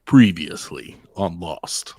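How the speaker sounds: slow, dramatic TV recap voice; dramatic announcer voice. Shown as a demonstration. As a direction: intone it like a show intro. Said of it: "do that again".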